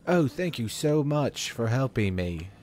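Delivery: mock British thank-you with little emotion; neutral British accent. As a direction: imitate a stilted British game character. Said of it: "Instead of just like".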